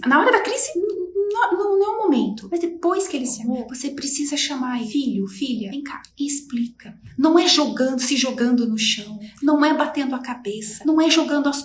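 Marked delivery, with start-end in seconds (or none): 4.9-7.0 chamando o filho num sussurro; sussurro calmo. Shown as a demonstration. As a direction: sussurre com carinho para a criança. (sussurro suave de mãe)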